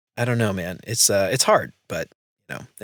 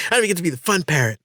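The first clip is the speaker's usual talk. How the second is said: quick, higher-pitched mock complaint; mad wife; 4 semitones higher, faster than usual. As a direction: imitate a fed-up spouse's grievance. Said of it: "she gets really mad".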